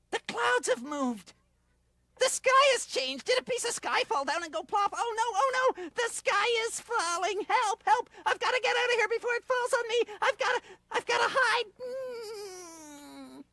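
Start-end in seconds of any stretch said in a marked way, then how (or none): 0.1-11.7 mild panic. Acted. Dragonfly panics, sky falling.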